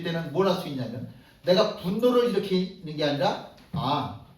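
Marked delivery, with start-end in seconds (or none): 3.7-4.2 low, soft, humble reflection; quiet realization. Retold or imitated. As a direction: murmur it like a repentant thought. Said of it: "라고 생각할 수도". (낮고 조용히 회개하듯)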